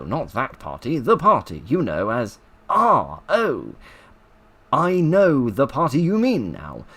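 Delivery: a hint of a chatty Cockney gossip; Low Cockney. Reading Mister Punch's Cockney exercise aloud, lightly Cockney. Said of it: "Low Cockney".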